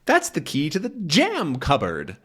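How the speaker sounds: high-pitched nagging wife voice; scolding wife. Acted. Wife scolding Fred about the wrong key, high and nagging. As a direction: scold him like an exasperated wife. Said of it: "She says".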